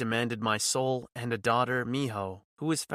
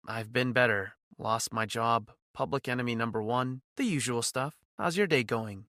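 sarcastic. Acted. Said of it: "My attempt at sarcasm".

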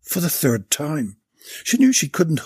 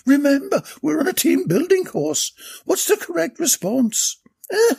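much higher, raised scolding call; shouting reminder; 13 semitones higher than usual. A narrator's reading. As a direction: shout the rules at two brawling men. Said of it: "she shouted again".

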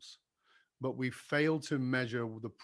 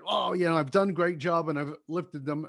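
excited; 3 semitones higher, 4 dB louder than usual. Retold or imitated. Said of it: "And I'd be so excited".

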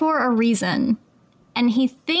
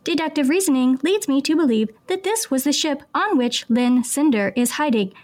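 flat, even robot readout. Pretend. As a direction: read it like a robot. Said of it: "I'm a robot".

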